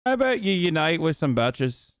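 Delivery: mock-rousing Irish accent. Streamer parodying an Irish speech, Irish accent. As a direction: put on an Irish lilt. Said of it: "do an Irish accent".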